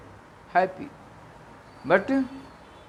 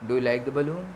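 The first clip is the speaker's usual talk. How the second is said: persuasive; faster than usual. Acted. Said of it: "now in persuasive manner".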